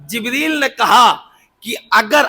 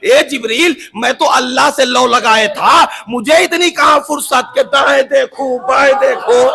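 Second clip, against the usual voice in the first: fervent declaration; 4 semitones higher, 3 dB louder than usual. Acted. Prophet's reply voiced loudly.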